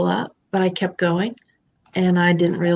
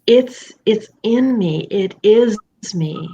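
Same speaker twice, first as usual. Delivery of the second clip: quiet conviction; 3 dB louder, slower than usual. Real, not acted. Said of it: "calm conviction".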